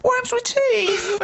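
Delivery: mock dramatic shout. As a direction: bellow it like a big reveal. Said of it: "Okay, wait for this".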